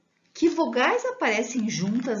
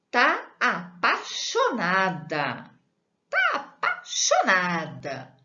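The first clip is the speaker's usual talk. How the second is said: teasing; 4 dB louder, slower than usual. Acted. Teasing Rosinha in love.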